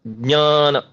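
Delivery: ज्ञान said as "ग्न्यान"; pure Sanskrit pronunciation. Shown as a demonstration. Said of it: "तो ज्ञान होता है वो". (शुद्ध उच्चारण: "ज्ञान" ञ की ध्वनि के साथ)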